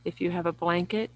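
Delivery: unhurried yoga nidra guidance, long pauses between phrases; guided meditation. Real, not acted. Yoga teacher guiding listeners lying down through relaxation, calm guided meditation. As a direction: lead listeners gently inward, phrase by phrase.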